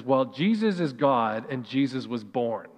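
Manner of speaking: a hint of a careful child, slow; lightly voiced little girl, explaining; imitating daughter. Pastor voicing his daughter correcting her brother, a hint of a careful child. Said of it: "this is exactly how she said it".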